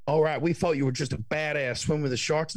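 easygoing Yank admiring him; American impression. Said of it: "I love your American impression".

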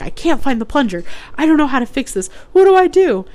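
retold hysterical sobbing. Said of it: "I'm sobbing at the top of my lungs".

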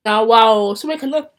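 talking while chewing gum; words round a piece of gum. Real, not acted. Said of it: "I'm chewing gum".

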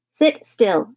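restrained shouted order; firm mock shout. Father ordering his son back down, mild shout. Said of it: "shouted Mister Carmody".

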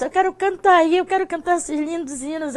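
high-pitched retelling of a plea; retold tearful plea. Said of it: "eu tava até chorando".

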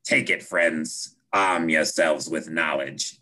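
slow, low prophetic mock voice; deep gravelly voice. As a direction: drag it out like a solemn oracle. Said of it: "in this deep, gravelly voice goes".

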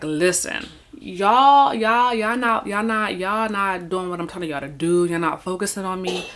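fed-up Philly preacher voice, loud then settling; Philly accent. Retold or imitated. God scolding his people in a Philly accent, loud and fed up. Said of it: "he talk like he from Philly".

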